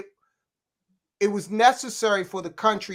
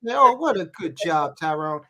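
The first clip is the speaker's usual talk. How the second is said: put-on mother praising child; 3 semitones lower than usual. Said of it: "I recognize that interaction".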